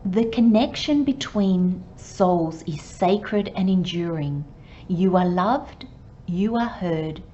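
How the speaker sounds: slow, gentle affirmation read; card reading. Acted. Psychic reading the card's message to the client, slow gentle read. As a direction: read the words like a blessing.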